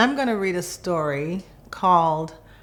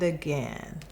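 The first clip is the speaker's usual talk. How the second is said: soft whisper-like fade; 3 semitones lower, 6 dB quieter than usual. A narrator's reading. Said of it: "I whispered the new words again".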